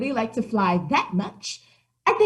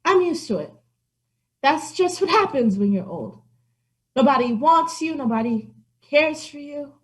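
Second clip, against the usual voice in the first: milk the pity for sympathy; self-pitying old cat; 6 semitones higher than usual. Acted. Old cat pities herself.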